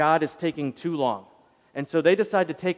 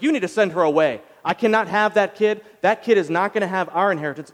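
louder, higher angry demand; mad Sarah; 6 semitones higher, 7 dB louder than usual. Retold or imitated. Sarah demanding Abraham send Hagar away, angry and loud. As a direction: demand the boy be sent away, heated. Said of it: "and she's like".

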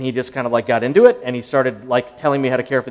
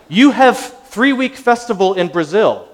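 slow, higher, louder put-on Eastern European accent; mock Eastern European accent; 6 semitones higher, 7 dB louder, slower than usual. Hammed-up Eastern European accent. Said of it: "It was a terrible accent".

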